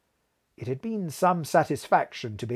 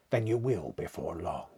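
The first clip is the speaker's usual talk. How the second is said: grave; 5 semitones lower, 5 dB quieter than usual. A narrator's reading. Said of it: "very gravely".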